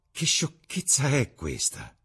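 slow, high-pitched incredulous question; exclaimed disbelief. A narrator's reading. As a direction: draw it out in mild astonishment. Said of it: "esclamò Basil".

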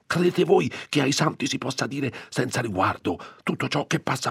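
a timid curate lecturing two gossips; lecturing priest. Acted. Priest lecturing his companions on silence, high and fussy. Don Abbondio lecturing the women.

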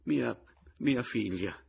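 high, halting stammer. A narrator's reading. Rival admitting he has a daughter, stammering. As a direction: falter on the first word and begin it afresh. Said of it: "balbettò Pomino".

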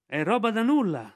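high, loud bird messenger; kite Ran reporting. Acted. The kite Ran tells Balù where Mowgli was taken, high and urgent.

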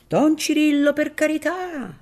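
high, loud desperate call; pleading call. Acted. Filippino begs Don Cirillo from the street, loud and high. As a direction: beg him loudly from below.

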